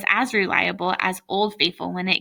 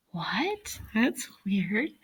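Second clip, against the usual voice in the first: surprised aside; 7 dB quieter, much slower than usual. Real, not acted. Reader's aside.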